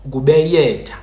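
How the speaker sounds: "ukubeyetha" with y in place of l; yeyeza Y form. Shown as a demonstration. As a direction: say "ukubeyetha", gliding on a y. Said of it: "So kuyeyeza oko".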